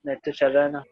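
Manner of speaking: choppy, cutting-out audio; robotic broken call voice; glitchy robotic call. Real, not acted. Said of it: "वो cut cut के आ रही sir.". (कट-कट कर आती आवाज़)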